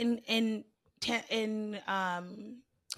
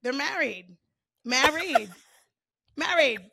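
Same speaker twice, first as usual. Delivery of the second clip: "married" with a stretched Jersey vowel; stuck accent; 2 semitones higher, 3 dB louder, slower than usual. Shown as a demonstration. Co-host relishing the accent that stuck, Jersey vowels. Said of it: "It's stuck".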